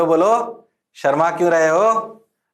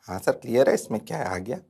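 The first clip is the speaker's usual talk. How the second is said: lower, softer mock student reply; voicing students; 5 semitones lower, 7 dB quieter, faster than usual. Teacher mimics students answering him, low and soft.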